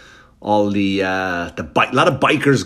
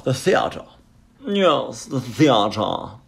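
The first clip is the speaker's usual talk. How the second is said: "theatre" with affected airs; mock-grand; much slower than usual. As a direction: savour "theatre" pretentiously. Mock-grand repeat of the word.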